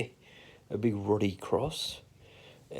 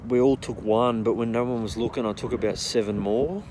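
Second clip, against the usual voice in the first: loud storytelling; 6 dB louder than usual. Real, not acted. Building to a wild climax.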